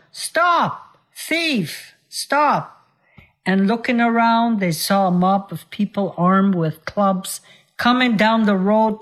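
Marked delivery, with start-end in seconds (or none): 0.1-2.9 mild mock shout. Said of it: "they heard a shout of".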